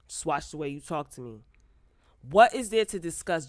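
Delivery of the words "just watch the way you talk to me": calm tone. Retold or imitated. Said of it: "in a calm tone".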